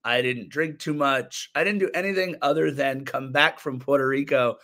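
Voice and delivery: husky voice from a cold; rough, worn-out hoarse throat. Real, not acted. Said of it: "this sultry baritone voice".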